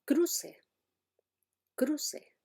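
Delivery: "cruce" with an -se ending, no final S; false plural. Shown as a demonstration. Teacher showing the popular false plural. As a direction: say "cruce" like "cru" plus se. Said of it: "el plural de cru es".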